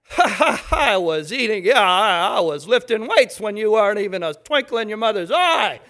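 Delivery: loud, boastful laughing brag; hammed-up old-timer boasting; mocking laugh. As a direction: scoff at the young one. Mocking a cocky old man.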